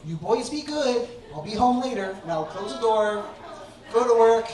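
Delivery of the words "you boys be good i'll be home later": lightly sweet pet-parent voice; talking to pets. Retold or imitated. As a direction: coo goodbye to the cats, a bit higher. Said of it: "every morning I would say".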